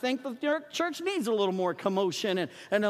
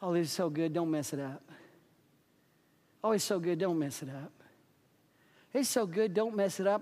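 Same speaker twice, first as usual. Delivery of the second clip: smug complacent; 6 semitones lower, 5 dB quieter than usual. Retold or imitated. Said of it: "people sitting around Jesus going".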